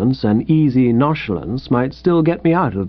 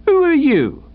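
policeman demanding. Acted. Policeman's sharp question.

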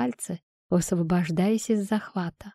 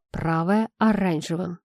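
plain reading voice

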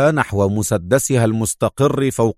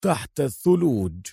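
quiet, softly spoken answer; calm; 6 dB quieter than usual. A narrator's reading. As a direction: answer calmly, keeping it soft. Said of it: "وأجابه في هدوء". (بهدوء وصوت خافت)

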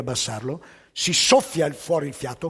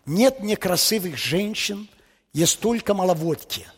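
slow Russian proverb, read out; 3 semitones higher than usual. Shown as a demonstration. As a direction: say it slowly in Russian, savouring it. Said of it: "in russo suona così".

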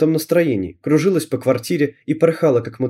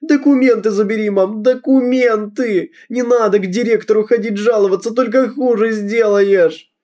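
hysterical screaming; 8 semitones higher than usual. Acted. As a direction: beg her in a fit of hysterics. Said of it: "Я закричала в истерике". (высоко, громко, в истерике, сквозь слёзы)

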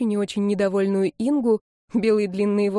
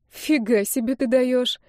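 изумлённо, медленно; 5 semitones higher, slower than usual. Acted. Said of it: "зачарованно посмотрела я".

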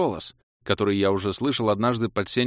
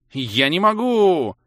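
much higher, louder slow roar; 7 semitones higher, 6 dB louder, slower than usual. A narrator's reading. Cobra roaring back at the hero. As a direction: roar it out in frustration. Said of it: "взревела змея".

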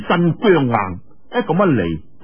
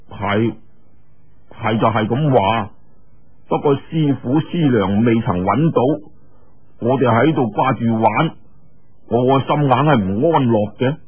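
a little lower, serious, reasoning; earnest young man; 3 semitones lower than usual. Acted. Lin Pingzhi answering Yue. (林平之低聲老實咁解釋)

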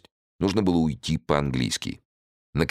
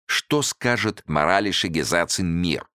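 ordinary delivery

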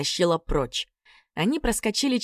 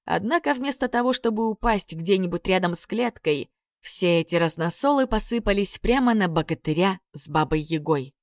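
usual speaking voice

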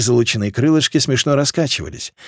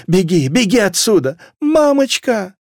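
higher urgent cry, climbing high; panicked cries; 7 semitones higher than usual. A narrator's reading. Trapped people urging flight, calling for mother, panicked. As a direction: cry out in terror, ending high. Fleeing, child calls mother.

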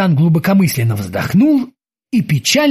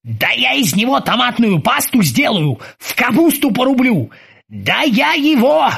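fuming threats; 7 semitones higher than usual. Acted. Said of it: "зашёлся Оззи".

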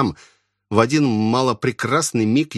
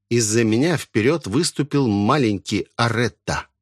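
usual speaking voice

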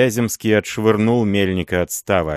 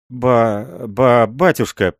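frightened stammer; 4 semitones higher, 4 dB louder, much slower than usual. A narrator's reading. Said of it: "ноги под ним подкашиваются".

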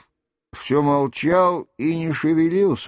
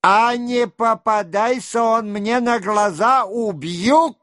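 bloodthirsty shout; 8 semitones higher than usual. A narrator's reading. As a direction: spit out the death threat. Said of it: "кровожадно прокричал Денисов".

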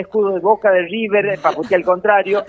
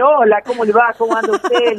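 higher-pitched, chummy passenger greeting; buena onda greeting; 5 semitones higher than usual. Acted. Passenger boarding a taxi to win over the driver, buena onda. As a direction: greet the driver with hammed-up friendliness. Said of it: "con toda la buena onda".

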